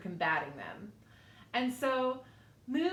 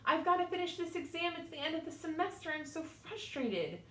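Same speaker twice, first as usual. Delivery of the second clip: stressed thought; 6 semitones higher than usual. Retold or imitated.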